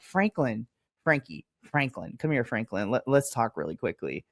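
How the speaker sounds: calm him down, half-joking; mock soothing. Mock-soothing talk to angry wrestler.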